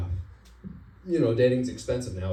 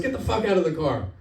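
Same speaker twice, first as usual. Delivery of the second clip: higher, loud cop command; barked order; 8 semitones higher, 3 dB louder than usual. Retold or imitated. Cop ordering driver out of car, loud command. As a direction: order him out, no patience.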